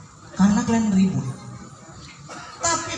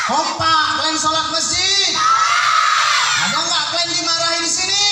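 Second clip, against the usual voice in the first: uncle's mock interrogation; 6 semitones higher than usual. Acting the uncle interrogating kids.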